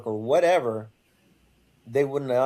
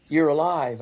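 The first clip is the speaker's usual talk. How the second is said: retold amazement; 3 semitones higher, 4 dB louder than usual. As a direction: voice the rescuer's surprise at finding him. Retold reunion, man greets him amazed.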